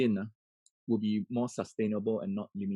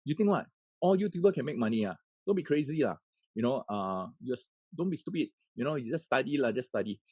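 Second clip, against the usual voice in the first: higher, scolding parent's rant; upset parent; 3 semitones higher than usual. Retold or imitated. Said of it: "we get upset and says like".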